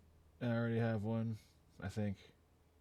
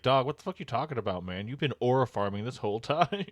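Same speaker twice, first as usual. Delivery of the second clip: louder, higher, fast comic callout; mock incredulous; 4 semitones higher, 6 dB louder than usual. Reader voicing Luffy calling out a crewmate, mock incredulous. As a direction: call him out in joking disbelief.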